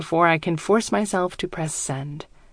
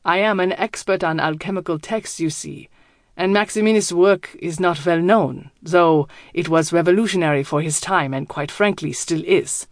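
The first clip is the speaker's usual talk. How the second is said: put-on German accent. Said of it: "His accent is thick, German".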